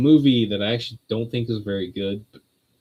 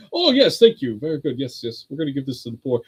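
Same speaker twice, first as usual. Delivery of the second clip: posh British; 2 semitones higher than usual. Retold or imitated. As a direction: imitate a posh British fellow handing out charity. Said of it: "like, posh British guy".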